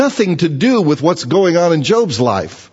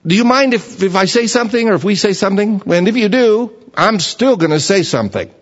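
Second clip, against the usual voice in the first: pushy friend; 4 semitones higher than usual. Retold or imitated. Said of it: "that's what he's gonna do".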